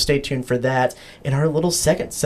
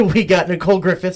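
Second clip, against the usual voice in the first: laughing; 3 semitones higher, faster than usual. Real, not acted. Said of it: "now the vibe's gone".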